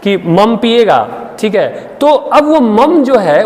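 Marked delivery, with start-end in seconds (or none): 0.2-1.1 put-on baby talk to child. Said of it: "बोलते हैं आपके यहाँ".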